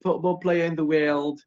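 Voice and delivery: attempted Irish or Scottish accent; imitated accent, possibly Irish or Scottish. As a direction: lightly imitate a thick regional British Isles accent. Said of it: "who said like this".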